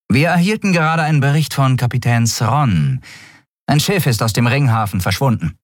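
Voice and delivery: high-pitched officer's report voice; dutiful first officer. A narrator's reading. Shia reporting to the admiral, dutiful.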